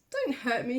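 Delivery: lion begging in fear; whimpered. Acted. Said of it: "he whimpered".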